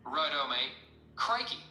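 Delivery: put-on broad Crocodile Dundee Australian accent; hammed-up Australian ocker voice; over-the-top Australian accent. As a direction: crank the Aussie accent up, Australian all the way. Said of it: "Crocodile Dundee accent turned up to one hundred percent".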